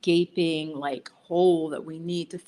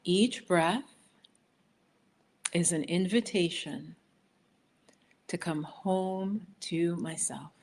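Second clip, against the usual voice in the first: slow affirmation; slower than usual. Shown as a demonstration. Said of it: "So repeat that after me".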